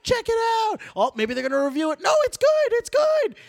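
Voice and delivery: very high, full-out screamed play-by-play; Tony Romo. Retold or imitated. Mocking a commentator who screams over a touchdown, screaming impression. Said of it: "him, like, screaming".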